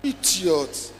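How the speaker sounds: loud, high mock tirade that ends in bah bah; hammed-up furious scolding; mock rant. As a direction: rail at them like an outraged pastor. Mock tirade against the gay guests.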